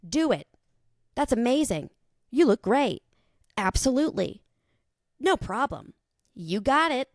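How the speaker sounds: flattering yes-man. Retold or imitated. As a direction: hype them up with empty praise. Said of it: "yes men".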